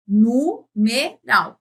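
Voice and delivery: "Numeral" slowly split into nu-me-ral; syllable by syllable. Shown as a demonstration. Teacher counting the syllables of "Numeral", split one by one. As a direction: break "Numeral" into three drawn-out beats. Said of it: "Como é que eu conto".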